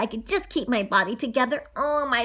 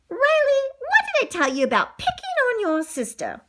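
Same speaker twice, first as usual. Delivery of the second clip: higher-pitched scolding mother; scolding mom; 11 semitones higher than usual. Acted. Mom tells off her son for picking on his sister, scolding. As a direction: take the child to task.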